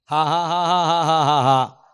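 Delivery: loud staccato ha ha ha; deliberate loud laughing for the crowd; forced laugh. Acted. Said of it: "जबरदस्ती हंस रहे हैं".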